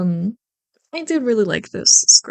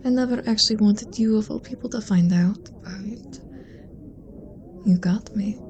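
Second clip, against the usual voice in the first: teasing confession. Acted. Friend confessing to the listener at the dinner party, teasing. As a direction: let them in on it with a smirk.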